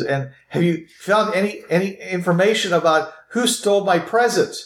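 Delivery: high-pitched lady's questioning voice; female character voice. Acted. Lady asks who stole her present, in a high female voice. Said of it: "you hear this female voice".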